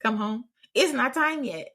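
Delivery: what do you mean come home, it's too soon; incredulous parent. Retold or imitated. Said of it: "whose mind is like".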